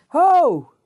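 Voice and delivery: high, loud hailing "Ho!"; yelled call. Acted. Preacher as Jesus on the riverbank getting attention, yelling. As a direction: holler it out to carry over a crowd. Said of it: "And he yelled out".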